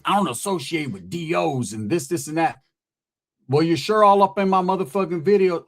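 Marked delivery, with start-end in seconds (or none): 0.0-2.6 lower, mumbly mock of a rival; lightly put-on rival's voice; mocking the commenter. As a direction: imitate his complaint dismissively, pitched down. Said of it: "That's how he sounds".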